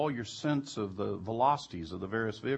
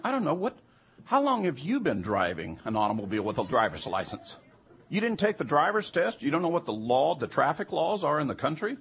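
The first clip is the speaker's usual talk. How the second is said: louder, pitched-up disbelief; incredulous argument; 4 semitones higher, 5 dB louder than usual. Retold or imitated. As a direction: challenge them like they're absurd. Arguing with stubborn jurors.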